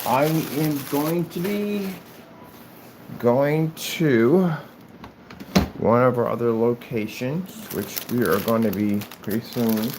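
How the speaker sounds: talking through a yawn; stretched, yawning words. Real, not acted. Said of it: "Oh, kind of yawning now".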